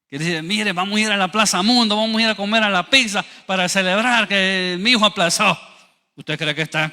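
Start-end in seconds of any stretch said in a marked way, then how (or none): 0.4-5.6 lively, higher mock celebration; mock happy parent. Parents supposedly celebrating a failed son, mock delight. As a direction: sarcastically play the delighted parent. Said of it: "¿y usted cree que estaban felices".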